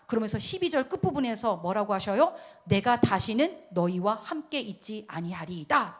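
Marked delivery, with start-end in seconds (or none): 2.6-6.0 slow, measured divine verdict; stern declaration. Acted. God warning the people over hidden sin, stern. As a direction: deliver it phrase by phrase, firmly. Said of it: "딱 그래요".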